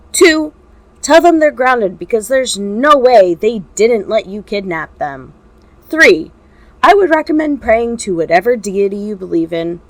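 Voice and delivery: loud, menacing ultimatum; cold threat. Acted. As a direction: spell out the threat, counting off each point. Shota threatens kidnapper by phone.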